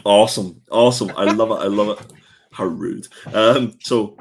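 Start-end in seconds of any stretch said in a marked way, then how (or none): 0.1-2.1 mock delight.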